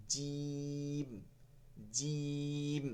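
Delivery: "জিম" with hard j from mid-tongue, long vowel; firm jim. Shown as a demonstration. Teacher shows how jim should be pronounced, firm and drawn out. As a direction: hold the vowel of "জিম" steady into a hummed m. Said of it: "এইভাবে জিমের উচ্চারণটা হবে".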